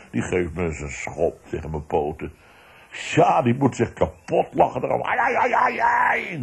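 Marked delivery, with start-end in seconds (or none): 5.0-6.4 high mock wailing, shouted; mocking imitation. Son mocking his father's shouting, high teasing wail. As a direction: mimic a father's yelling as a teasing kid. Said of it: "doet hij dan na".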